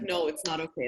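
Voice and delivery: a quiet imagined heckle; low muttered pretend refusal; mock objection. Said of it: "imagine someone's like".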